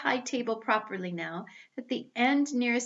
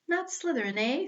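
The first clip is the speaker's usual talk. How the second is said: higher, teasing echo of the words; small questioning hat voice; 5 semitones higher than usual. Acted. The Sorting Hat echoes Harry's plea, in a higher quizzical voice. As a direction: toss the words back to him, quizzical. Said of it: "said the small voice".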